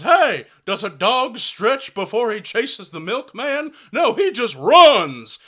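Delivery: mock football coach yelling at players; angry coach. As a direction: yell like a mad high school coach. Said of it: "he goes".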